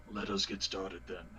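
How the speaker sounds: low, soft in-character mumble; mumbled. Acted. Player voices invisible Jarek setting off, mumbled low and soft. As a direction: mumble it down into your chest. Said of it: "mumble out".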